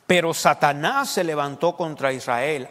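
loud, slow verse reading; emphatic scripture reading. Real, not acted. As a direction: read the verse out loudly, driving it home. Reads key verse aloud emphatically. (lectura bíblica enfática, en voz alta)

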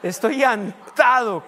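slow, shouted "Estoy llantado", relishing the mistake; laughing loud repeat. Retold or imitated. Pastor gleefully shouts his son's wrong word to the congregation. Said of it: "que a gusto me reí".

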